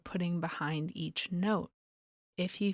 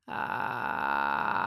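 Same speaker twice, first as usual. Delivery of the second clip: low, creaky vocal fry ah. Shown as a demonstration. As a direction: creak gently on the ah. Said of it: "Here's what a vocal fry sounds like".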